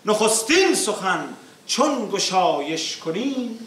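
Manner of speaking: rhythmic declaimed verse, falling line ends; epic teahouse storyteller. Acted. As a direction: recite the verses with epic weight. Reciting opening verses.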